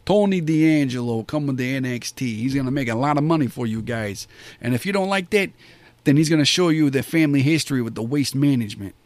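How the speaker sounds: lightly put-on mob wiseguy accent, quick; half-playful Jersey mob accent. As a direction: pitch him like a mob enforcer in a light mob accent. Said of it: "It makes you wanna just do the accent".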